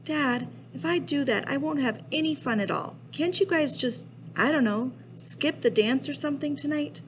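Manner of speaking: high-pitched begging protest; pleading kid. Acted. Kid begs dad to skip the dance, pleading. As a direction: bargain with a parent, pitch held high.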